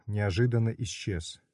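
ordinary delivery

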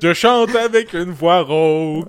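slow, badly faked rocker; a rock singer. Hopeless impressionist saying what he does, slow lame impression. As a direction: describe the voice without really doing it. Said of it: "je vais vous faire Éric Lapointe".

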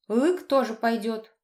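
put-on slow, childish Лык with L instead of R; a little girl deliberately lisping Лык; child's missing R. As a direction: say Лык, swallowing the R like a small child. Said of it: "специально не выговаривает «Р»".

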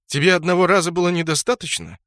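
indignant near-yell at the dark god; near shout. A narrator's reading. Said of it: "Брутто чуть ли не крикнул".

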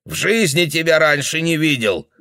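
put-on angry old man. Old man denying he knows her.

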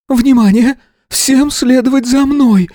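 a headmistress snapping into command; shouting orders. A narrator's reading. Headmistress to evacuating crowd, high loud shout. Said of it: "крикнула она".

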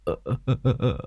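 soft drawn-out sob; old man wailing over the dead envoy. A narrator's reading. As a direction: let out a quiet wail. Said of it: "mếu máo khóc lóc".

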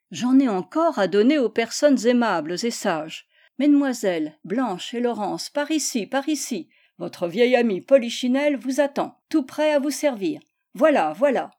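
livelier storybook voice for Polichinelle; lively puppet showman. Acted. Polichinelle invites the young ladies to take tickets, lively showman. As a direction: lightly play a welcoming showman. Polichinelle calls out to his guests.

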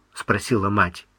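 ordinary delivery

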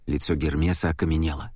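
plain reading voice

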